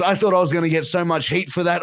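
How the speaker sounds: chuckling through the words; half laughing, relieved; laughing relief. Retold or imitated. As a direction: wrestler relieved the fan liked it, laughing. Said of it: "He goes".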